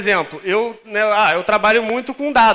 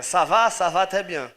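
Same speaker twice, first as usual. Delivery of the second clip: French phrase; slower than usual. Shown as a demonstration. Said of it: "É".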